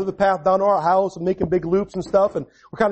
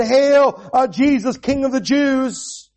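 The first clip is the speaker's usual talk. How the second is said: mock homage; 4 semitones higher, much slower than usual. Kneeling soldiers mocking Jesus with a slow, sneering hail. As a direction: draw out the hail like a sneering bow. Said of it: "bowed their knee and said".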